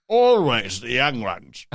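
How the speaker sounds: slow, drawn-out mock lament; hammed-up lament. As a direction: stretch each word out for the joke. Hams up the repeated line.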